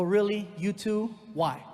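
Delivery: really, you too; incredulous. Retold or imitated. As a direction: throw it back in shock. Incredulous reply to manager.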